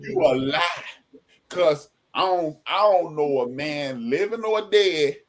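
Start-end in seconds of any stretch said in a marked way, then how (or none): 0.0-0.8 playful call-out. Real, not acted. Playful disbelief.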